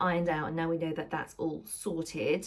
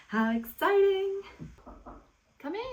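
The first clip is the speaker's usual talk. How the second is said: excited; 11 semitones higher than usual. Real, not acted. Friend arriving to try dress.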